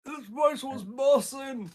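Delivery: high, slow, laughing through it. Acted. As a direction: giggle the slang out. Joking repeat of slang.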